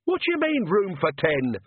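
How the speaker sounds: shouted. Acted. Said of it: "shouted Agnes".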